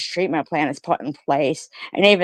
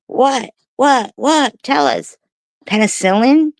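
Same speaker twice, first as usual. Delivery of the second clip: taunting; 8 semitones higher, 4 dB louder than usual. Real, not acted. Taunting the haters with demands.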